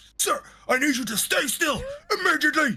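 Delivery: put-on security voice, stern, commanding and shouted. Retelling Jackson shouting at a roach, Jackson's shouted security voice. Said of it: "engage his uh, security voice now, ... starts shouting".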